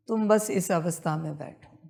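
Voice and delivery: usual speaking voice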